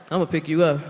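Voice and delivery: low, cocky imitation of a skinny guy; mock confidence. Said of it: "with all the confidence in the world".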